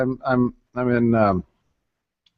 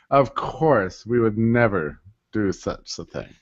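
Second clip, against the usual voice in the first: Louis C K line; 4 dB quieter, slower than usual. Retold or imitated. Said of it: "as Louis C K would say".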